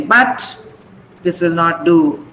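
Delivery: BUT lifted and set apart by a pause; stress on BUT. Shown as a demonstration. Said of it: "then it is stressed".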